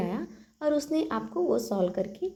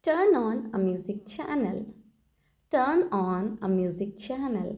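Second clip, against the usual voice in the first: very slow, word by word for learners; slow model sentence; 3 dB louder, much slower than usual. Shown as a demonstration. Teacher repeats the phrase for the class, very slow. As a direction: lay each word out slowly. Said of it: "कहिए".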